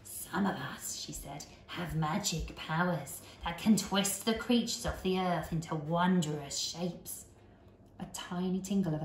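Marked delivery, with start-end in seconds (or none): 0.0-7.2 put-on old woman whispering. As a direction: lean in and whisper throatily. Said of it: "whispering in a throaty sort of voice".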